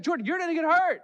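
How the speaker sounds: high, loud mock mom warning; a hammed-up mother cautioning her son. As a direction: warn like a worried mother.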